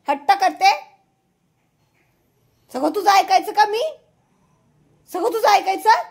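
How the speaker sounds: high, loud rising questions; indignant scolding. Real, not acted. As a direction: challenge a stubborn pet crossly. Scolding the stubborn dog. (संतापून चढ्या आवाजात)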